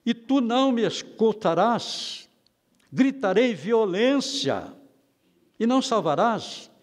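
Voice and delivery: crying out. Retold or imitated. The preacher quotes Habakkuk pleading with God to listen, crying out. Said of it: "ele está clamando".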